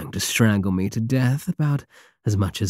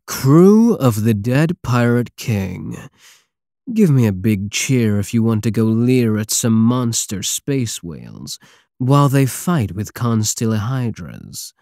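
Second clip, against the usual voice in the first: calling to the crew; 3 dB louder than usual. Acted. Captain rallying his pirate crew, loud call.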